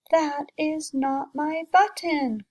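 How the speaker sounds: a storybook cry of frustration; cried out. Acted. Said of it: "cried Toad".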